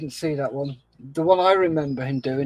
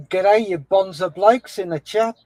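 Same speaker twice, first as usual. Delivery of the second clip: rough attempt at an Australian accent; cheery Aussie greeting, badly done; 3 semitones higher, 4 dB louder than usual. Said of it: "my crap attempt at an Aussie accent".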